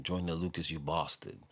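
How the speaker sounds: imitated British accent on the insult; lightly mimicked British accent. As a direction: put on a British accent, long "a" in bastard. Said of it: "you have to say it in the accent".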